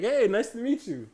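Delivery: high-pitched polite greeting; professional dad. Retold or imitated. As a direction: imitate dad's courteous hello. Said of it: "very professional".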